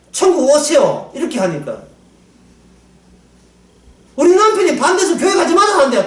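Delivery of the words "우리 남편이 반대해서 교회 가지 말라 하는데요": imitated excuse. Church member quoting her excuse.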